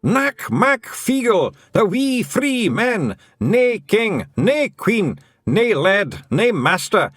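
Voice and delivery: high, loud, slow battle chant; clan war cry. A narrator's reading. Feegles shout their motto at Tiffany, loud war cry. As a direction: brandish swords and roar it.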